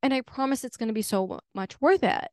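the universe as a breezy, easygoing voice; chill universe. Retold or imitated. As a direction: soothe an impatient friend from above. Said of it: "the universe is like that owner".

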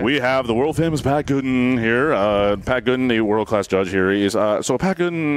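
a light, half-hearted announcer intro; lightly voiced announcer introducing Pat Gooden. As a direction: present the guest like a show host. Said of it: "I'm gonna change voice".

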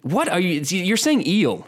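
high, slow mocking drawl on "eel". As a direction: stretch "eel" out in a high, teasing voice. Mocking friend's pronunciation.

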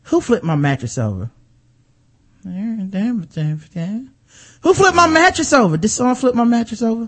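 hammed-up confused complaint; mock reality show girl. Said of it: "I'll give my impression of it".

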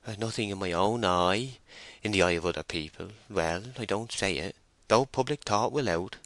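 lightly voiced country labourer, self-effacing; a hint of a bashful rustic; timid rustic farmhand. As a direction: play a humble farm worker answering the mistress. Voices farmhand Joseph Poorgrass.

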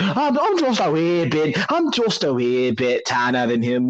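a hammed-up, clumsy Irish accent, lightly done; bad Irish accent. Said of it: "just like a really bad Irish accent".

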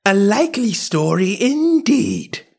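high, drawn-out scornful pigeon; contemptuous high-pitched dismissal; deepest contempt. A narrator's reading. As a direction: sneer it slowly in a high bird voice. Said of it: "in a tone of the deepest contempt".

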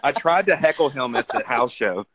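words slurred around a mouth guard; slushy sh sounds for s, mouth guard in; talking with mouth guard. Real, not acted. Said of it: "are you talking with a mouth guard in".

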